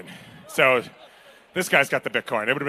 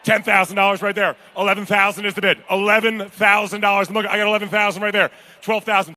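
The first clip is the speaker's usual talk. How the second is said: brisk, punchy auctioneer calls; a charity auctioneer driving the bidding; auction bid calling; 2 semitones higher than usual. Acted. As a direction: rattle off the bids to the room.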